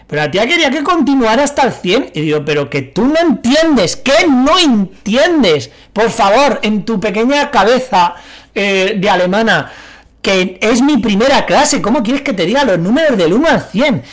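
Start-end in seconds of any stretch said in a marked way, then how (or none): 2.5-14.0 raised, slow, incredulous protest; exasperated retort. Retold or imitated. To the strict teacher after the first class, slow exasperated protest. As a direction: spell it out to a teacher who won't listen.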